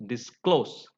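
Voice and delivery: "disclose" stressed on -CLOSE; stress on last syllable. Shown as a demonstration. Teacher showing learners the rule, stress on last syllable. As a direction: land on the second syllable of "disclose". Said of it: "you have to stress on".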